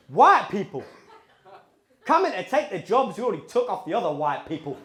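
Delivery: put-on Cockney grumble; strong Cockney accent. Cousin moaning about Romanians on the plane, strong Cockney accent. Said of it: "my two cousins have strong Cockney accents".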